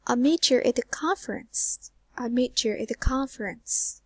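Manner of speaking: "conference" stressed on its first syllable "con", falling end; stress on final content word. Shown as a demonstration. Teacher modelling sentence stress for students, stress on "conference". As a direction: lean on CON in "conference", then let it fall. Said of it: "it will go like this".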